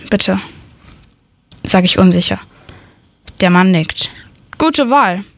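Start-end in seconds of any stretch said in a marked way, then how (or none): 4.6-5.2 breathy unvoiced whisper of approval. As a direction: whisper it like a secret deal. Shopkeeper confides the choice.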